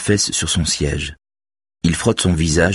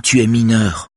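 firm interruption, a bit louder; cutting in; 6 semitones higher, 4 dB louder than usual. A narrator's reading. Robert interrupts the girl, firm and louder. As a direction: cut her off with "Tu es mineur". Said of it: "l'interrompt Robert".

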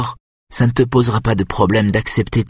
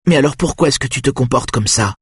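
reproches furieux; 9 semitones higher than usual. A narrator's reading. Mother's angry accusations at the boy.

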